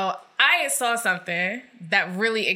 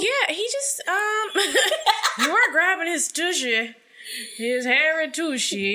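laughing; 7 semitones higher than usual. Real, not acted. Laughing at the grabbing.

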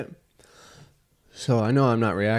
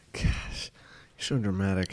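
whispered; 2 semitones lower, 7 dB quieter, slower than usual. Real, not acted. Teasing friend under breath.

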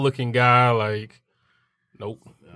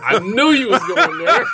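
laughing; 7 semitones higher, 4 dB louder than usual. Real, not acted. Laughing at friend's joke.

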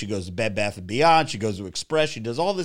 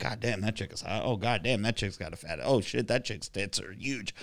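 hushed, mock-leering murmur under his breath; a lightly voiced guy ogling, said softer and half to himself; muttered ogling; 3 semitones lower, 9 dB quieter than usual. Guy ogling the Sephora staff, softly muttering. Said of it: "You're like".

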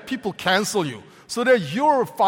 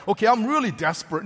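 mock desperate; faster than usual. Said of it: "we read it as he's grope".

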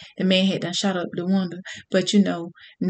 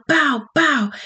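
higher-pitched gunshot noises; bang-bang sound effect, higher; imitated gunshots; 6 semitones higher than usual. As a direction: punch out mimicked gunfire.

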